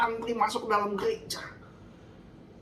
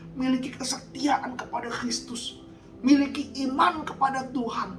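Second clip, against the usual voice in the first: raised, driving sermon delivery; fiery preaching. Acted. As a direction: preach it hard to the congregation. Preaching at full force.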